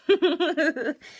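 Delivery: quick high burst of laughter; light self-amused laugh; bright laugh. Real, not acted. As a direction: laugh at yourself out loud. Laughing at herself live.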